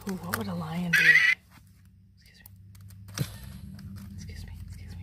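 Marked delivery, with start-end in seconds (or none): 2.2-5.0 soft whispered excuse me; whispering. Pretend. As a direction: whisper it politely, again and again. Keychain lion sound, whispered.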